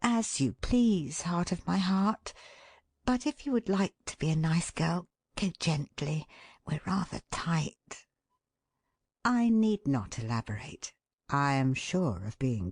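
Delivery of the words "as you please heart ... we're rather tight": affectionate coaxing. Shown as a demonstration. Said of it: "Or whether you convey".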